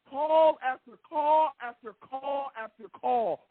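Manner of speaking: high, drawn-out and deliberate; slow bitter emphasis. Real, not acted. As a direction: hammer each word of the complaint. Host furious at referees.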